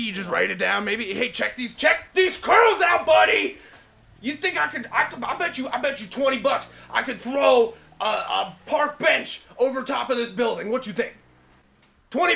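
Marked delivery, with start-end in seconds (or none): 1.1-1.7 cocky braggart. Acted. Acting out a cocky bragging character. 1.7-3.6 loud brag. Acted. Bragging shout within the acted quote. 4.2-11.2 cocky braggart. Acted. Acting out a cocky bragging character.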